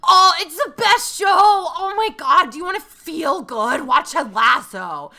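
high, loud, gushing rave about the show; gushing fan. Retold or imitated. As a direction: oversell it like a breathless superfan.

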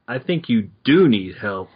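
"do" stressed within the phrase. Shown as a demonstration. Taunting a choking Batman, stress on "do". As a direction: lean on "do" to make the point. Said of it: "the way that the certain words are influenced".

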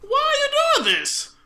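high, loud, slow pleading wail; hammed-up frightened cry; mock terrified plea. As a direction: beg like a cornered victim. Acted victim pleading.

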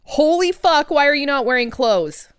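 loud shocked outburst. Acted. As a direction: yell in shock. Shocked at naked Philippe.

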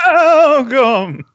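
high, loud, wailing ghost welcome; ghostly shriek. Acted. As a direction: shriek it like a haunting spirit. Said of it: "What a horrifying, ghostly shriek that was".

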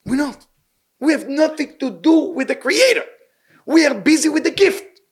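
emphatic rebuke. Real, not acted. Rebuking congregation.

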